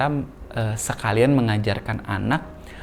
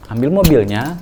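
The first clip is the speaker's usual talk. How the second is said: firm command; 6 dB louder than usual. Shown as a demonstration. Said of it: "kita hitung pelan-pelan".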